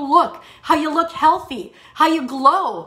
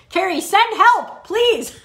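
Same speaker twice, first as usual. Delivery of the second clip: laughing while reading; 7 semitones higher, 3 dB louder, slower than usual. Real, not acted. Reading a funny comment aloud.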